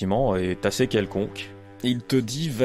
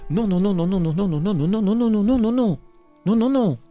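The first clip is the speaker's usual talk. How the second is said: rising, louder repeated nos; emphatic no; 11 semitones higher, 5 dB louder than usual. Acted. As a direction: build the nos to a loud, high peak. Escalating refusal.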